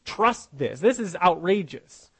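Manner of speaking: mildly incredulous string of questions; skeptical, lightly acted protest; doubting Zacharias. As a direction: voice a touch of disbelief, pressing each question. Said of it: "She's not saying, like Zacharias says".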